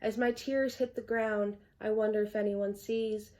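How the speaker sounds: measured, earnest verse recital; poem reading. Acted. Poet reading own poem Invisible to viewers, poem reading. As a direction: recite line by line in an even cadence.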